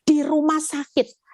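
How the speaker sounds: mild retold protest; angry at God. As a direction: demand an answer from God, retelling it. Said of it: "saya juga marah sama Tuhan".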